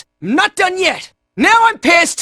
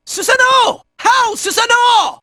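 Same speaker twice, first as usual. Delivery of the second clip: summoning shout; 4 semitones higher than usual. Acted. Summoning Susanoo in battle.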